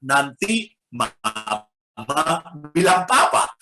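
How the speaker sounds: put-on a mother telling her child she'll tell papa, quoting her gently; quoting mama. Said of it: "mama berkata".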